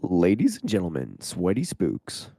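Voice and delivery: slow, drawn-out announcer opening; show intro. Acted. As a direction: greet the audience like a showman. Opens the podcast episode.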